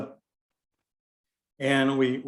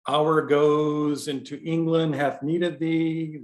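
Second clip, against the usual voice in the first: slow run-on reading; 3 semitones higher, slower than usual. Shown as a demonstration. Teacher reading lines slowly to show a run-on. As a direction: read the line slowly and let it run on into the next. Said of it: "that's a run-on line".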